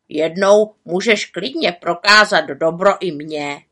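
loud raven voice, clinching the deal; gruff raven deal. A narrator's reading. Raven accepts the witch's offer firmly. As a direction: accept like sealing a bargain.

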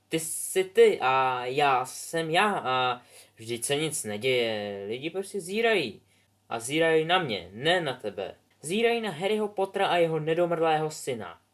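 lightly voiced sulky boy. Son complaining to father.

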